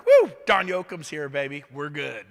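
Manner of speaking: loud cheerful whoop on Woo, then easy confidence; walking into the room like you own it, excited; excited entrance. Pretend. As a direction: burst in hyped up. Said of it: "You enter the room like".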